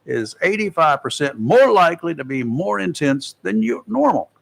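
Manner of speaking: measured announcer read, key figures leaned on; presenting a forecast to listeners; radio weather report. Acted. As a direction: read it like a radio hurricane bulletin.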